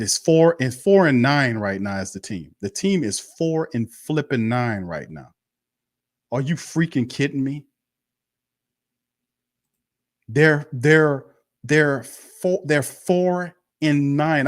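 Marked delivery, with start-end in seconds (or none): 6.3-14.5 higher, slow, disbelieving outburst; can't believe the record he's saying; exasperated disbelief. Real, not acted. Fan ranting to his chat in high, stunned disbelief.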